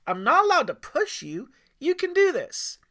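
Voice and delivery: high, loud cheering dad; encouraging shout. Acted. Dad shouting up to his son to jump. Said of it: "Aiden's dad shouted".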